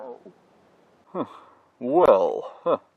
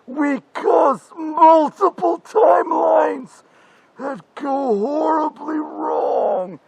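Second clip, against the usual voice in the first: higher, slow, anguished warning; dramatic doom warning; 5 semitones higher, slower than usual. Acted. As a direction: plead it like a tragic prophet. Future self's dire warning.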